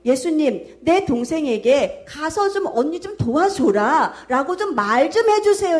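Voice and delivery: acted grievance, pitch climbing toward the end; lightly voiced complaint to a master; complaining plea. Martha takes her grievance about her sister to Jesus, complaining. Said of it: "가서 불평을 토로해요".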